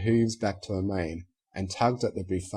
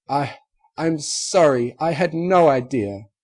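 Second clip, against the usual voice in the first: high, louder, choked-up apology in a lady's voice; tearful apology; 5 semitones higher, 6 dB louder than usual. Acted. The unicorn apologizes to her friend, high and tearful. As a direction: stammer it out close to tears. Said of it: "tears began to spring".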